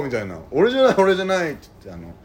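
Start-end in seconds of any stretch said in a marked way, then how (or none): 0.5-1.5 high, hurried-sounding mock protest; feigned denial. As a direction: deny it loudly like the guilty one. 犯人が必死に否定する. (犯人がとぼけて必死に否定する声)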